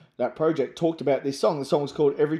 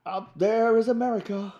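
rock singer impression; 9 semitones higher than usual. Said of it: "Bonio's talking".

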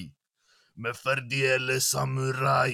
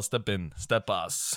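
a lower voiced retelling of his reaction; imitating himself; 4 semitones lower, slower than usual. Retelling how he reacted to the track, lower hype voice. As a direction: repeat the title like a hype reaction. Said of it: "Jag bara".

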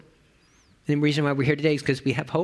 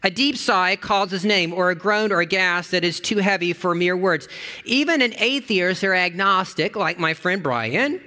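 devotion reading; 3 semitones higher than usual. Acted. Barb's devotion read aloud on the bus, earnest.

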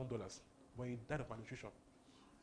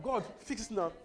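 loud, higher, urgent plea; angry demand; 5 semitones higher, 6 dB louder than usual. Retold or imitated. Preacher retelling Hagin's angry prayer, loud and high. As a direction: demand God fix it now. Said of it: "he was getting angry".

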